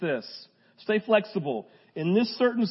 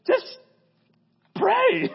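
simple prayer; 13 semitones higher, 3 dB louder than usual. Retold or imitated. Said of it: "Just go".

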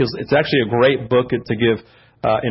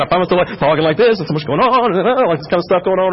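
higher, hurried mock babble; anxious fast talking; 4 semitones higher, faster than usual. Shown as a demonstration. Preacher imitates himself stressed about church, frantic mock chatter. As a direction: play up the stressed-out rambling. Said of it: "start talking a lot faster".

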